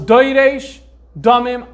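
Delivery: slow, letter-by-letter deciphering; piecing the words together slowly; slow sounding out. Shown as a demonstration. Teacher deciphering the manuscript for students, slow sounding out. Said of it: "I'm gonna try to read it off this manuscript".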